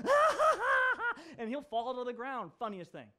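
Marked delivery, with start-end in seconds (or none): 0.0-1.2 much higher, squealy laughing; playful high giggle of a son; imitated child giggle. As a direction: squeal like a giggling little boy.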